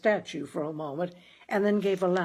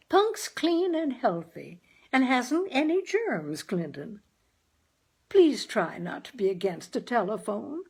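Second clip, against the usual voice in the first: pleading mother; 5 semitones higher than usual. Acted. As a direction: soothe him while defending the cat.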